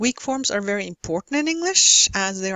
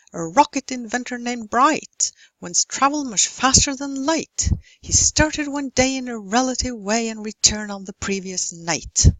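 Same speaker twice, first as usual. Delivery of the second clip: limerick read with a strong beat; rhythmic stress; 2 semitones higher than usual. Shown as a demonstration. Teacher reading a limerick to show stress rhythm. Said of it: "this is not usually how we mark stressed syllables".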